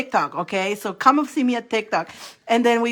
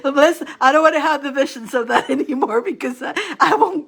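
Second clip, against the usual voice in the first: fighting off the giggles; laughing helplessly; 4 semitones higher than usual. Real, not acted. Telling viewers she can't survive the reading, slowed by laughter. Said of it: "I won't survive the reading today".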